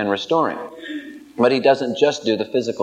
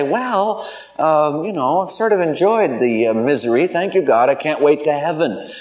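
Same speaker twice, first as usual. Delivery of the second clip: mock contentment; 4 semitones higher than usual. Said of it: "God doesn't want us to say".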